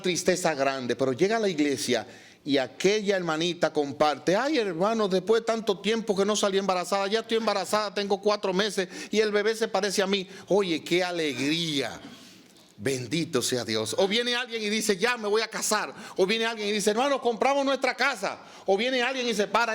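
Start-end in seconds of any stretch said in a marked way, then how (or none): 4.4-10.3 higher-pitched, imitated happy church sister; imitating joyful news. Hermana comparte su embarazo con alegría. 15.0-15.9 higher-pitched mock wedding announcement; imitating happy announcement. Alguien anuncia su boda. 16.9-18.4 much higher, acted-out joy; imitating excited announcement. Alguien anuncia su casa nueva.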